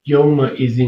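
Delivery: "یومئذ" picked out alone for its hamza sound; "یومئذ" الگ سے ادا کریں; word isolated. Shown as a demonstration. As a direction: set apart "یومئذ" to show the hamza. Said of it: "یہاں پر اذن کے اندر جو".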